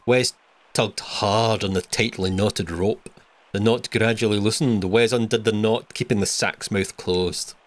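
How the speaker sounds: narrator voice. Acted. Reading the game's text aloud, in a low slow narrator voice. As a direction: read it like a grave narrator. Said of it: "I wish I didn't read it in that voice".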